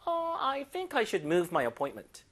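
slow, stressing move; slow model reading. Shown as a demonstration. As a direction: read it out slowly for students. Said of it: "들어볼게요".

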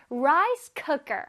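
"cooker" with its "cook" said distinctly; slow, make "cook" in "cooker" crisp; clear cook. Shown as a demonstration. Teacher models a distinct "cook" in "Rice cooker". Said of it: "cook를 발음을 조금 더 뚜렷하게".

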